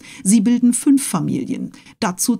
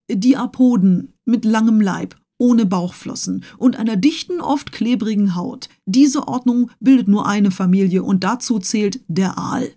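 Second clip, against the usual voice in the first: pedantic Conseil; 2 semitones higher than usual. Acted. Conseil keeps classifying.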